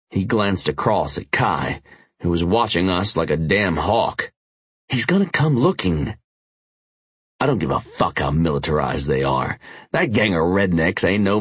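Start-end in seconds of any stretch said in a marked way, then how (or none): 4.9-6.2 urgent biker voice. Acted. Tanner's voice.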